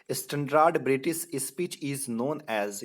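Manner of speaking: slow, deliberate question reading; quiz reading. Shown as a demonstration. Teacher reading a quiz question slowly to the class. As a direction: spell out the question slowly for students.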